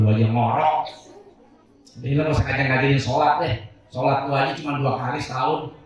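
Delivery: fast, brushing-off mock wife; sassy wife retort. Wife brushing off husband who wakes her to pray, fast and sassy. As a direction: rattle off the excuses dismissively. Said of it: "Ngomong apa itu bapak?".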